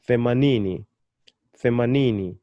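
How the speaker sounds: themanini joined up, weight on the first NI; penultimate stress. Shown as a demonstration. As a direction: lean on the third syllable of themanini, then fall. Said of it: "putting my emphasis on the second to the last syllable".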